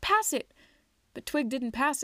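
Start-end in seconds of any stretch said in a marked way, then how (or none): 0.0-0.5 sharp, much higher shout; calling out. A narrator's reading. Teammate demanding the ball, high shout. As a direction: yell for the pass. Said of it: "called out".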